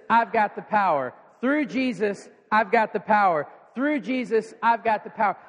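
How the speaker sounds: leading the crowd in a chant; call and response. Shown as a demonstration. Preacher leading the church in a chant. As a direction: chant it with the congregation. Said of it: "somebody say that with me".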